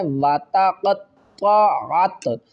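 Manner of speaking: वतक़त्तअत with a heavy q and ṭ and a light t; heavy and light letters. Shown as a demonstration. Teacher demonstrating heavy and light letters in वतक़त्तअत. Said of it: "क़ाफ और त्वा को मोटा पढ़ना है".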